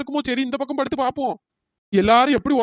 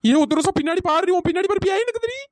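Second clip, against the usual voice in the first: rising panicky warning; frightened cry; 5 semitones higher than usual. Acted. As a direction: voice climbing high in alarm. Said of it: "பேய் பேயின்னு கத்திட்டு இருக்கா".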